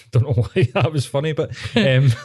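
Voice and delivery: giggling through the words, fast at the end; can't stop laughing at himself; laughing while talking. Real, not acted. Giggles at own remark.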